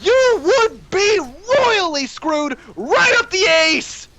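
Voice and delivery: doom-laden teacher rant, building from high to a shouted "Doomed!"; Invader Zim teacher. Retold or imitated. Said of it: "To quote Invader Zim".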